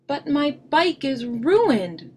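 high, loud, slow wail; distressed cry. A narrator's reading. Brother showing Papa and Mama his ruined bike, distressed. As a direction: cry it out in despair. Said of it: "cried Brother".

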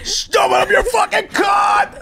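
high, slow laughing shout like a frontman; mock rock-singer yell. Telling his mate how he yells alone in his room, high laughing mock shout. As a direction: belt it out laughing like a stage singer. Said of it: "I go".

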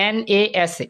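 quick letter-by-letter "এন এ এস এ"; spelled out. Shown as a demonstration. Teacher shows how we don't say NASA, quickly spelled out. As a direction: rattle off the letters "এন এ এস এ" one by one. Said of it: "আমরা কিন্তু এভাবে বলি না".

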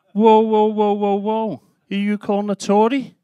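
high, mock-affronted protest; indignant objection. Comedian objects to his family's Tory jibe, mock indignant. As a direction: cut them off with a high string of whoas.

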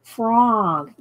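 slow, drawn-out Southern vowel; lightly drawled Southern delivery. Shown as a demonstration. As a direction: draw out "frog" with a Southern drawl. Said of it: "do I have a Southern drawl".

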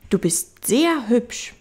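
little prince. Acted. Little prince admiring the fox, high child voice. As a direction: pitch it well up like a small boy.

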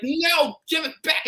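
high, loud mock shout. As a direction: yell it like a panicked man. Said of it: "he's like".

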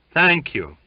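high, loud call from afar; crying out. A narrator's reading. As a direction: call your thanks out of the darkness. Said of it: "he cried from the darkness".

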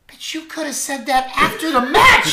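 high-pitched, hammed-up outrage; indignant protest. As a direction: protest loudly at the injustice. Wrestler complaining about being attacked.

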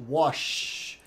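"wash" finishing in a long SH; SH ending. Shown as a demonstration. Teacher puts the sound in the word, "wash" with long SH. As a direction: hold the hush at the end of "wash". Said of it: "o som de sh".

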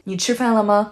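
你吃饭了吗 with a light 吗 tagged on; short neutral 吗 closing the question. Shown as a demonstration. Teacher showing a question, light final 吗. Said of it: "tag on the ma at the end".

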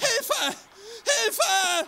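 high, loud panicked cry for help; terrified cry. Acted. Drugged young man to anyone near, a panicked high scream.

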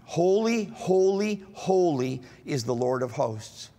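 leading the congregation in the chant; proclaiming scripture. Acted. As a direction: call it out like the heavenly chorus. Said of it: "let's just say that".

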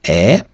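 "е" as one clear vowel; French vowel sound. Shown as a demonstration. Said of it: "яке читається як".

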